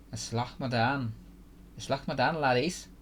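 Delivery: playful fictional dwarf take on Scottish; mock-Scottish dwarven accent; attempted Scottish accent. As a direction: put on a light Scottish lilt. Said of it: "trying to sound Scottish a little bit".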